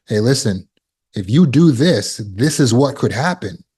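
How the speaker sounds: put-on gently instructive parent to a child; educational manner. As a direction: explain the consequence, measured and deliberate. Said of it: "educational manner".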